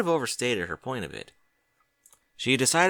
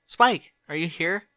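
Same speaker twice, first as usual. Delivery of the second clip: slow, louder call through an empty house; 7 semitones higher, 5 dB louder, slower than usual. Acted. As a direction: call out and wait for an answer. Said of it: "she called".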